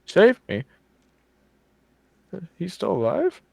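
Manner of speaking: high, disbelieving questions; stunned hope breaking through; surprised. Acted. NPC hears brother may live.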